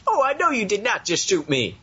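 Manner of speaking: sassy Rochelle. Retold or imitated. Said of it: "She'd be like".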